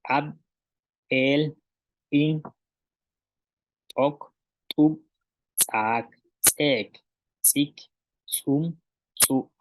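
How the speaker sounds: "Ab, el, in" opened with an ejective t, "sik, sum, su" with ejective ts; isolated model words like "tok" and "sak", glottal pop on the opening t or ts; glottalised T, TS. Shown as a demonstration. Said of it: "la ta y la tsa".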